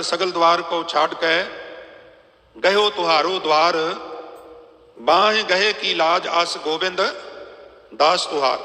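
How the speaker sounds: slow, resolute recital of the verse; firm prayer recital. Acted. Preacher telling listeners to pray firmly, resolute recital. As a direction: say it slowly with conviction. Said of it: "ਬੜੀ ਦ੍ਰਿੜਤਾ ਨਾਲ ਆਖਿਆ ਕਰ".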